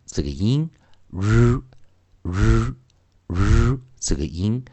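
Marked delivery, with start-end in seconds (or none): 1.1-3.8 "日" as a held IPA r, no vowel after it; IPA r sound. Shown as a demonstration. Teacher shows students the IPA sound, bare held r. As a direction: say "日" as a drawn-out buzzing IPA r. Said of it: "它其实比较偏向".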